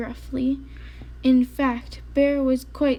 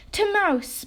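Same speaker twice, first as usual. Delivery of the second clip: announced; 8 semitones higher than usual. A narrator's reading. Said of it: "Bear announced".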